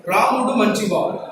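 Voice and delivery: "Ramudu manchivaadu" quick and evenly stressed; uniform Telugu stress. Shown as a demonstration. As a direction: give every word of "Ramudu manchivaadu" equal stress. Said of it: "Uniform stress".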